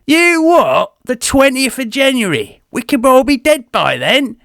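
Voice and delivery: hammed-up shock, pitched high; mock outrage. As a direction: squeal with comic disbelief.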